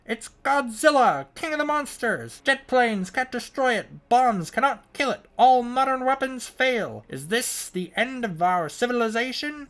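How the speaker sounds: booming high vintage movie announcer; 1950s trailer voice. Shown as a demonstration. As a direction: belt it like an old monster trailer. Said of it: "do it in a nice nineteen fifties voice".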